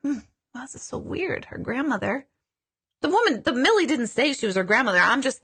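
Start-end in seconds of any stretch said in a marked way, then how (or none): 0.0-2.3 soft, hushed musing to herself; quietly thinking it through, baffled; puzzled inner voice. Retold or imitated. Medium reading for a client, quietly puzzled. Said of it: "I'm like".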